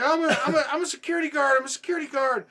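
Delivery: high, loud, mock-frantic protest; panicked pleading. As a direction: blurt it repeatedly as a cornered man pleading. Retold robber pleading he is security.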